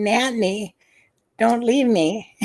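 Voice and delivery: a hint of a frail sick man pleading; little weak voice. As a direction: lightly voice a weak boy calling from the bedroom. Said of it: "This little weak voice saying".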